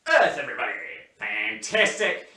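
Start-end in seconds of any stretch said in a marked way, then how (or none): 0.1-0.7 strong, loud warm-up call. Shown as a demonstration. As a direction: call out Earth to the group. Leading the warm-up.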